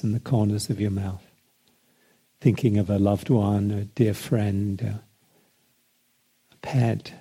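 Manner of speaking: calm meditation guidance with spacious pauses; guided meditation. Acted. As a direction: ease them into relaxation, phrase by phrase. Guides relaxing into a smile.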